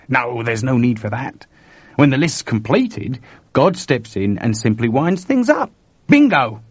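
brisk reassurance building to a high, loud exclamation; animated Chuck explaining. Acted. Chuck tells George how God ends things, animated. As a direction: build to a punchy finish.

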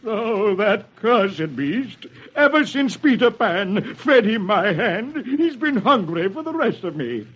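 slow, menacing villain snarl; snarling pirate captain; Captain Hook snarling. Acted. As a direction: growl out the grievance, drawing out the words. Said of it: "Hook snarls".

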